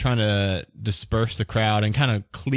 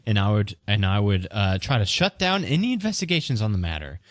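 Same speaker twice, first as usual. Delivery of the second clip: defensive accused merchant; 7 semitones higher than usual. Acted.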